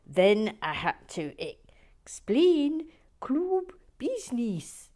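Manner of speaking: hammed-up Northern Irish with big swoops; exaggerated, badly faked Northern Irish accent; attempted Northern Irish accent. Resuming the viewer's letter, attempted Northern Irish accent. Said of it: "to do a Northern Ir".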